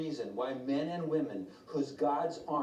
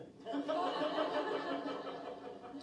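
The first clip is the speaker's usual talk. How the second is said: hearty laugh; 13 semitones higher than usual. Real, not acted. Preacher laughing at his friend's story, big laugh. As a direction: laugh out at the punchline.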